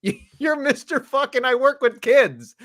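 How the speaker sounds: mocking sneer. Friend mocking the wrestler's claim about working with kids, slow scoffing sneer. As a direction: sneer it out, laughing at him.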